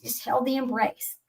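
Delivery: ordinary delivery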